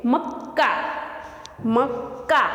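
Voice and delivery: मक्का said with the doubled क held, मक-का; teacher models मक्का with a held double क; clear Hindi pronunciation. Shown as a demonstration. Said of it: "तो उसका उच्चार हम कैसे करेंगे".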